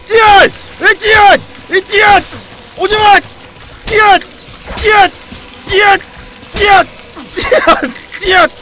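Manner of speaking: high, loud fighting yells; battle roar. Real, not acted. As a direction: roar with every strike. Stabbing swarming rats.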